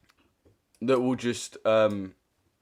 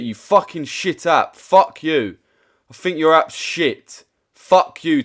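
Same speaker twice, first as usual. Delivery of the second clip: raised angry swearing; angry cursing; 3 semitones higher, 4 dB louder, slower than usual. Real, not acted. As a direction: rant at the app. Streamer cursing at app.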